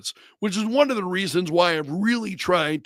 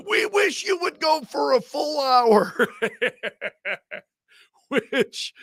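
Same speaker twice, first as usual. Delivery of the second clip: high, laughing retelling; 8 semitones higher than usual. Real, not acted. Host fondly relaying viewers' wish for a full hour, laughing. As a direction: break into a real laugh while quoting. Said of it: "which is why I'm laughing".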